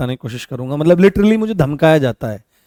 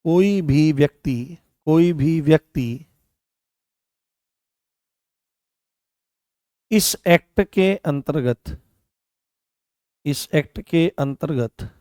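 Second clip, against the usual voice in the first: slow, measured dictation; spaced-out words for note-taking; 3 dB quieter, slower than usual. Real, not acted. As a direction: dictate slowly for students writing notes. Teacher dictates notes for writing.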